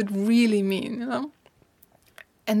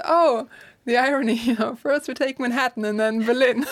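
amused thought; 3 semitones higher, 4 dB louder than usual. Retold or imitated. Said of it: "And I thought".

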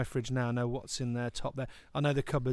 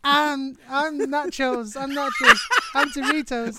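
a chorus of tempting snack voices; 9 semitones higher, 5 dB louder than usual. Pretend. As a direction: lure him like a whispering snack. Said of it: "all these voices".

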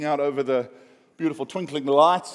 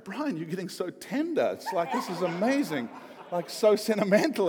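teasing through laughter, slightly higher; laughing mock tender; 6 semitones higher than usual. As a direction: laughingly praise a friend's tenderness. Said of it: "And we're like".

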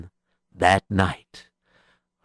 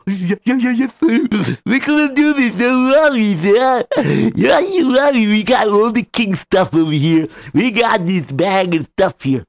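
eager henchman; 10 semitones higher than usual. Acted.

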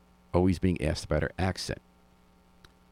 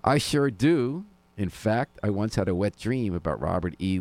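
sarcastic; 4 semitones higher than usual. Retold or imitated. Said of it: "Sarcasm bubbled in my body".

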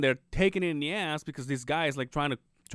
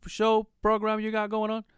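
imitating his way of talking; 8 semitones higher than usual. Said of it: "and this is how he talks".

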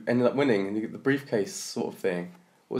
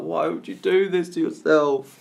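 exasperated disbelief; 8 semitones higher, 5 dB louder, slower than usual. Retold or imitated. Exasperated at reality show contestants.

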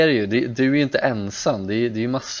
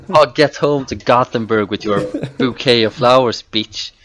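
mock telling off; 6 dB louder than usual.

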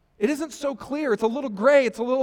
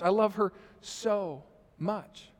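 slower and softer, tender; softer sincere repeat; 5 dB quieter, slower than usual. Real, not acted. Pastor telling the church how much he loves his daughter, softer and slower. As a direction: let the love sink in slowly. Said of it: "softer, slower repeat".

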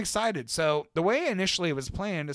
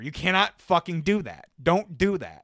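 firm, slightly raised retold plea; emphatic warning; 3 semitones higher, 4 dB louder than usual. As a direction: lay down each word as a warning. Retold urgent warning to friend.

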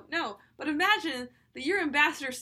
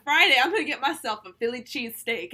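treating myself; 2 semitones higher, 7 dB louder than usual. Retold or imitated. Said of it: "Or, like".

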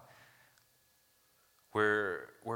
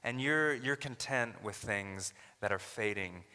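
voicing Paul; 6 semitones higher than usual. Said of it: "He's saying".

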